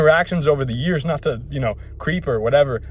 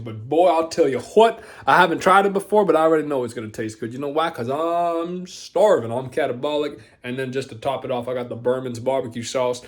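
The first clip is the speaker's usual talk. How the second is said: Hank Hill voice. Retold or imitated. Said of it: "switched up to the Hank Hill voice".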